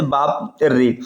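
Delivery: बाप रे with रे drawn out to triple length; prolonged pluta vowel. Shown as a demonstration. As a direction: stretch the रे like a call from afar. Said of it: "यह चिल्लाने, गाने, रोने और दूर से पुक". (रे को तिगुना लंबा खींचकर)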